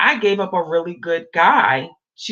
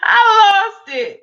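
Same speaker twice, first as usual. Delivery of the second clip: laughing hard; 12 semitones higher, 7 dB louder, slower than usual. Real, not acted. Laughing about cussing him out.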